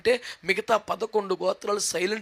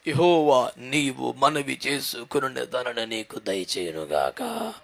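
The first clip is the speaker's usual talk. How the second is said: put-on slow, lower voice of an old priest blessing; blessing priest Eli; 7 semitones lower, slower than usual. Priest Eli blessing the grieving woman, slow and low. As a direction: bless her slowly, from deep down. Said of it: "ఏమని దీవించాడంటే దైవజనుడు".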